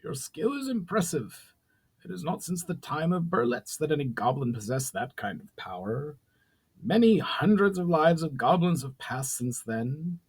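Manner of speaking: grudging admiration, gentler. A narrator's reading. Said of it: "decidedly less harsh tone".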